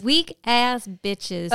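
slow, relished repeat of weak ass bitches; gleeful echo. Real, not acted. Friend gleefully echoing the insult, slow and relished. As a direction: savor the insult back to her.

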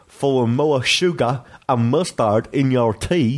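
slow, stretched mock-British vowels; exaggerated British accent. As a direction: read it as spelt, in hammed-up British. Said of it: "But that's how he wrote it".

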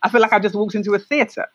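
imitating impressed first-time visitors; amazed audience. Artists walking into the transformed space, retold amazement. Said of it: "they were like".

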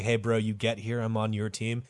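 half-hearted secretive aside; mock whisper. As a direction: slip it to him on the quiet. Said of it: "If you whisper to Hitler".

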